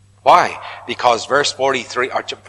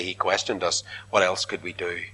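sheepish brothers; 7 semitones lower, 9 dB quieter than usual. Acted. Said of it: "they say".

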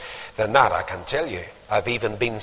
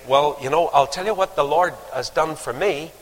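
gentle. Shown as a demonstration. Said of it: "You could gently say".

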